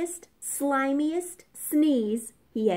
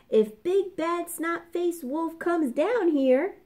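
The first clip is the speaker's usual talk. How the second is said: chuckling pigs; 7 semitones higher than usual. A narrator's reading. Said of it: "they chuckled".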